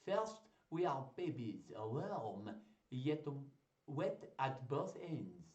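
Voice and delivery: slow, hammed-up French accent. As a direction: recite grandly in a shaky attempt at French accent. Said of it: "shall I try a French accent?".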